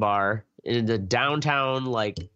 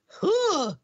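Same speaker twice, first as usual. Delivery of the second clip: puzzled passenger. Retold or imitated. Passenger's reaction voiced.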